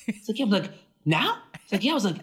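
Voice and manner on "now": retold disbelief. Disbelief at the timing.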